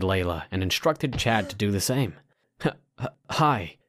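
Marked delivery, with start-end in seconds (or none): 2.6-3.8 trembling voice. Acted. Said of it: "Chad's voice was trembling".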